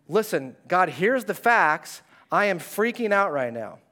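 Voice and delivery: a believer's half-acted frantic prayer; freaking out. Believer complaining to God in prayer, mock panicked. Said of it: "and we go".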